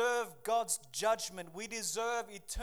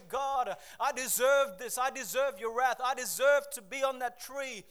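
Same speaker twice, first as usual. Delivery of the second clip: earnest loud confession; 3 semitones higher, 7 dB louder than usual. Acted. Voicing the repentant gangster.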